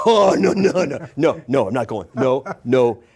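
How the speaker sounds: a burst of retold terror; panicked refusal. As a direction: back away in mock panic. Panicking at the open door.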